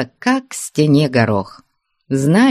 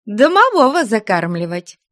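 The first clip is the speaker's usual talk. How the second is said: higher, cheeky quick reply; pert answer; 8 semitones higher than usual. Acted. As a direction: toss it back boldly. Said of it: "бойко отвечала".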